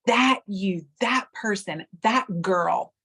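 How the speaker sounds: "that" punched in each short phrase; stress on THAT. Shown as a demonstration. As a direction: point out each one with "that". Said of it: "put the emphasis on a different word".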